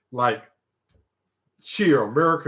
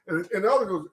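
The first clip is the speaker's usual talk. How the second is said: ordinary delivery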